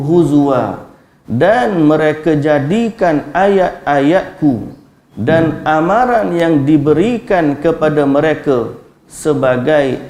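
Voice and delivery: slow, measured verse reading; scripture recitation. Real, not acted. Preacher reciting Quran and translation to the congregation, solemn recitation. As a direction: recite the verse, then translate it slowly and deliberately.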